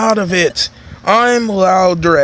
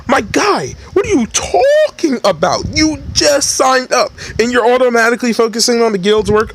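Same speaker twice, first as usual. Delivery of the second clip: mock incredulous; 5 semitones higher than usual. Real, not acted. Player mocking his character's choice, high and incredulous. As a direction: raise the voice in mock disbelief. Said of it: "reacts in a put-on high voice".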